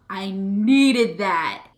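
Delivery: sigh, then a slow whisper; whispered relief. Real, not acted. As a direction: breathe it out, slow and hushed. Emotional relief after a breakthrough.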